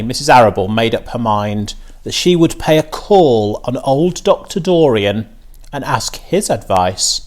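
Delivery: usual speaking voice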